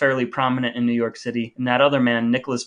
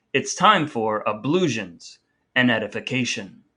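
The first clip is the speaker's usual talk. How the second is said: slow, lower segment title; segment announcement; 3 semitones lower than usual. Acted.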